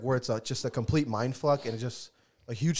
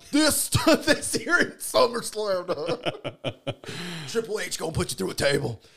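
hyped ring announcer voice, louder, higher; wrestling announcer; 5 semitones higher, 6 dB louder than usual. Pretend. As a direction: call it like a ringside announcer. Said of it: "I'm trying to be the announcer".

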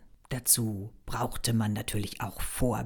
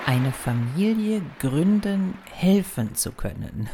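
mock Hitler speech, slow and emphatic; lightly imitating Hitler's rally oratory; Hitler impression; 5 semitones higher than usual. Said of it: "Das war Adolf Hitler".

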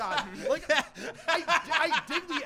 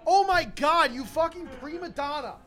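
exasperated outburst; 5 dB louder than usual. Real, not acted.

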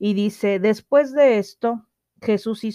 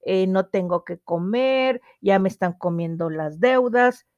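mock whiny complaint. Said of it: "tú me vas a decir".

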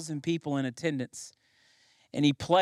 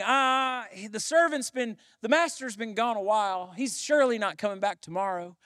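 mildly mocking, higher-pitched lazy servant; a touch of offhand complacency, pitched up; dismissive procrastinator; 4 semitones higher than usual. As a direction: lightly act a servant shrugging off the work. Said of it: "put off the work thinking".

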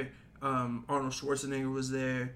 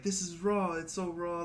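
half-committed mimic of a TV chef complaint; Hell's Kitchen impression; 3 semitones higher than usual. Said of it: "like, Hell's Kitchen when he's like".

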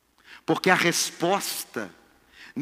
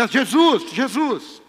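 lightly acted calling out, higher voice; woman calling Jesus; 7 semitones higher, 5 dB louder, much slower than usual. Preacher acting a woman who starts calling Jesus, calling out. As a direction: call out for Jesus, raised a little. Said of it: "ela começa a chamar Jesus".

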